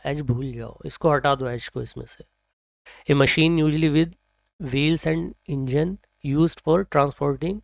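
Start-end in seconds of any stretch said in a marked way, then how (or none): 3.1-7.6 very slow, spaced-out words; slow definition reading. Shown as a demonstration. Teacher slowly reading the definition of vehicle. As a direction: read the meaning slowly for learners. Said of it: "reads definition slowly".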